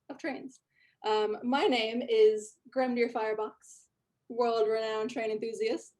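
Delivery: nerdy dwarf. Acted. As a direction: greet them like a puffed-up hobbyist. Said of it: "and he says".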